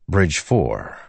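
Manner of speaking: plain reading voice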